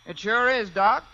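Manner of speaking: lightly disguised railroad station clerk. Pretend. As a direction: put on a voice so the caller won't know you. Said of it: "as soon as I can disguise my voice".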